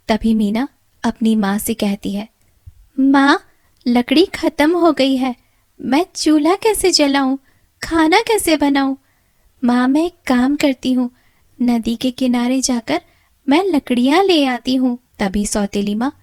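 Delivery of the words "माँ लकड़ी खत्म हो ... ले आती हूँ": put-on higher, louder pleading girl; high pleading young girl voice; timid girl pleading. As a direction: beg for a little time. Meena explains, pleading.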